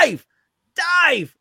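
loud, high call across a distance; re-enacted shout to a friend. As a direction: yell the name to get his attention. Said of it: "I'm shouting out".

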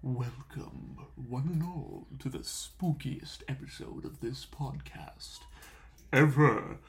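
hushed, creepy show opener; spooky host voice. Acted. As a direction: draw them in like a horror host. Spooky podcast intro, hushed voice.

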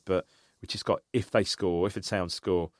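low, hushed retold voice; confiding warning. Friend warns fans before the director's box, hushed and confiding. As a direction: keep it down, a discreet word. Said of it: "on the down low".

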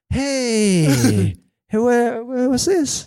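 high, laughing startled protest; flustered, laughing confusion; surprised. Retold or imitated.

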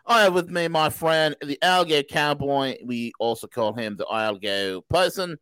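hammed-up Aussie host greeting; Australian accent. Host opening the show live from Australia, mock Aussie accent.

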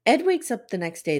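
ordinary delivery

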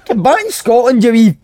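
laughing while mocking, pitch up; mock scolding through laughter. Real, not acted. Pundit laughing as he mocks the player's England hopes.

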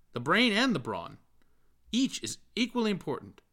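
high, loud, rising persuasion; earnest Bloom holding forth. A narrator's reading. Bloom persuades Stephen to write, high and zealous. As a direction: sell the idea with growing zeal. Bloom's long voiced speech.

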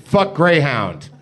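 "Fuck Greyhound" drawn out slowly and firmly; announcing the subject line, slow and deliberate. Shown as a demonstration. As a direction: read it slow, like a title. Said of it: "Subject line".

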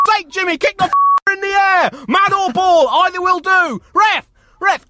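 high, very loud raging parent; angry dad screaming at his son and the ref; furious touchline yelling. Retold or imitated. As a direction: roar at the kid and the ref. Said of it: "You're probably gonna hear them say".

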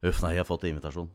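low, mumbled-quick gloomy character line; downcast. Acted. Downhearted cartoon character confiding in a friend, mildly glum. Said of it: "han begynner med å være nedfor".

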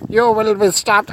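defiant shout. Acted. Detective warning an evil sock, defiant shout. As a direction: pronounce doom on the monster at full voice.

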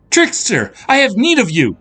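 very high, loud heroine's call; commanding cry to a spirit; shouted summons. A narrator's reading. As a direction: shout for help into the air. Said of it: "shouted Serafina to the air".

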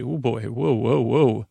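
breathy startled whoa; surprised. Retold or imitated. Startled on finding a penny with an edge. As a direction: act startled by the odd penny. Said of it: "I say".

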